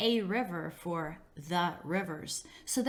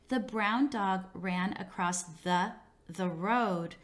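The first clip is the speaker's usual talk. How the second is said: student repeating a word; slower than usual. Shown as a demonstration. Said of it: "repetition of a word is not considered an error".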